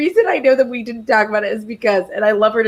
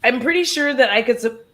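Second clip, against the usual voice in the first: hiccuping mid-sentence; words broken by hiccups. Real, not acted. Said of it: "I have hiccups".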